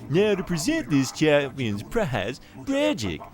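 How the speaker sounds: deep announcer voice; booming announcer. Pretend. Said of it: "in the deeper voice".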